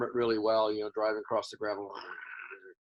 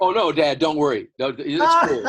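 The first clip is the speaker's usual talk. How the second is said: nervous brush-off; 4 semitones higher, 10 dB louder than usual. Retold or imitated. Teen son brushing dad off.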